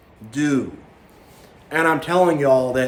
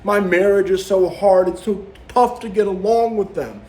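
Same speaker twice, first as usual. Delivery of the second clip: 1 mock self-pity; 4 semitones higher than usual. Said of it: "They'll talk".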